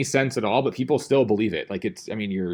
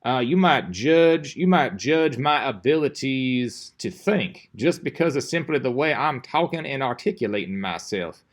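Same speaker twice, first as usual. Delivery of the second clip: sloppy, lazy talk; 2 semitones higher than usual. Shown as a demonstration. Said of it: "start talking like this".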